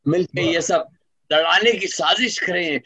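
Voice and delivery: measured, rhythmic poetry recital; stately nazm recitation. Acted. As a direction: declaim each line to the audience. Resumes nazm after anecdote.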